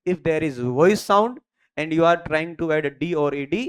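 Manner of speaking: very slow, word by word dictation. Shown as a demonstration. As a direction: spell the rule out slowly for notes. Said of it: "you have to follow three conditions".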